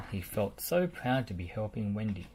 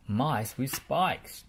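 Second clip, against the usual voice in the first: trembling fear; 4 semitones higher, 3 dB louder, much slower than usual. Acted. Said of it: "trembled Lofty".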